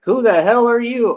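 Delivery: high-pitched, put-on outrage; mock indignant challenge. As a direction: imitate someone demanding to know. Voices a challenger confronting him.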